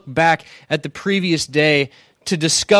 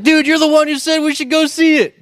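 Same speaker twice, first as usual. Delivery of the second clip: exasperated protest; 8 semitones higher than usual. Retold or imitated. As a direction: throw up your hands, incredulous. Speaker protesting to friend.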